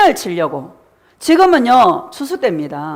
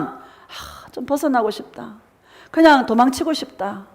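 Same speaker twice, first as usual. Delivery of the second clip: weary sigh; 5 dB quieter than usual. Retold or imitated. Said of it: "이런 생각이 들 때가 있습니다".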